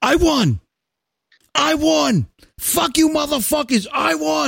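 a coworker crowing that he has won the lottery; mock triumphant yell. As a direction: ham up a lottery winner's victory cry.

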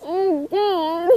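high, squeaky real laughing; crying with laughter; helpless laughter. Real, not acted. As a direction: lose it completely. Reader dissolving into laughter.

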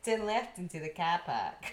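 mock Australian Siri, breaking into laughter; laughing mock Australian. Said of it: "Australian Siri is".

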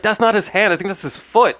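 high, loud correction; alarmed friend. Retold or imitated. Mike correcting Donna about the wound, high and loud. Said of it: "Mike's like".

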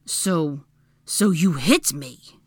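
halting, slow, winded words; panting. A narrator's reading. Draco winded by her punch, panting. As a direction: break it up to catch breath. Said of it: "he pounded".

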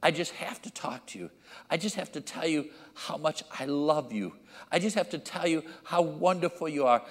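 put-on insistent child pleading, starting soft; soft plea building to urgent repetition; desperate pleading. Desperate child at dad's bedside at midnight, pleading. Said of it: "they came in with a desperation".

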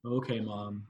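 softly humoring a parent, doubtful; understated, quietly unconvinced reply; mild skepticism. Retold or imitated. Child doubting mom's new story, mildly skeptical. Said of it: "I'm skeptical as to".

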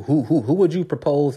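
words breaking into a laugh. Real, not acted. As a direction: laugh through the question. Laughing at absurd question.

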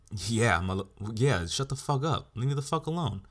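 angry rant. Real, not acted. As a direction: let the anger spill out.

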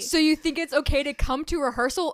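mock-scolding a bandmate, without shouting; screaming match, toned down. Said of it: "it is a screaming match".

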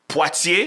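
Poitier drawn out slowly as "pwah-tyay", questioning; slow French Poitier with a "pwah" opening; French pronunciation. Shown as a demonstration. Arguing it's a French name, slow questioning Poitier as "pwah-tyay". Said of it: "It's a French name".

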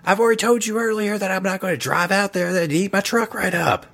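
exasperated Davis. Acted. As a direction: play Davis put-upon and defensive. Davis snaps back.

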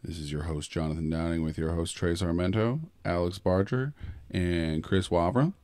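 smooth late-night DJ delivery; radio voice. Acted. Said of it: "practicing that radio voice".

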